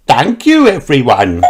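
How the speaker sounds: high, bright little squeal of thanks; excited thanks. A narrator's reading. Peppa thanking her family for the present, excited. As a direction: thank them bursting with joy. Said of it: "she cried".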